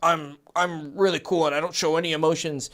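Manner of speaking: imitating an emotionless cool guy; too cool. Coach mimicking guys who restrain their emotions, aloof. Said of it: "or they're like".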